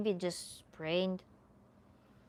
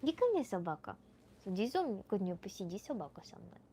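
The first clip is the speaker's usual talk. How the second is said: soft Russian coaxing, dropping away; coaxing a dog; 6 dB quieter, faster than usual. Real, not acted. Streamer calling the dog to come sit, softly coaxing. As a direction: call your dog over gently, voice sinking.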